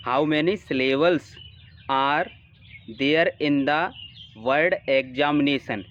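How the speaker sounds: slow, careful reread of the question; unhurried dictation-style reading. Acted. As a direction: reread the question slowly after the slip.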